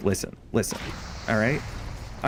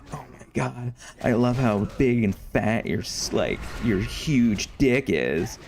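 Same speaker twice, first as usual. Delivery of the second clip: porn star voice. Retold or imitated. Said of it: "a completely different voice".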